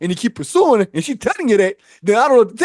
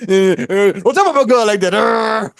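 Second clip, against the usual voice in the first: mock protest; 2 semitones higher, 5 dB louder than usual. Defending girlfriend against sister.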